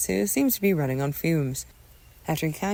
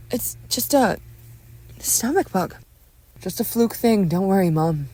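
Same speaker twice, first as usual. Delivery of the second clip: slightly loud, higher-pitched excuse; reassuring son; 4 semitones higher, 4 dB louder than usual. Acted. Son downplays stomach bug to mother, raised reassuring voice. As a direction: brush off the worry in a raised pitch.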